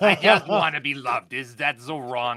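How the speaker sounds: put-on rough raspy voice. Showing the others an impersonation: Harvey Fierstein impression. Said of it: "my Harvey Fierstein impersonation".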